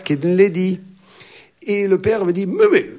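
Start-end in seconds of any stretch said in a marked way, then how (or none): 2.5-2.9 put-on posh English accent. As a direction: call out like an upper-class Englishman. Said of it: "c'est comme ça qu'il m'appelait".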